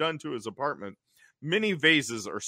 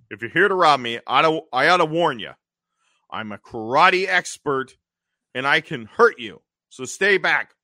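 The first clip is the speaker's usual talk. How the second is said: Louis threatening; 5 dB louder than usual. Retold or imitated. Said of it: "Louis is like".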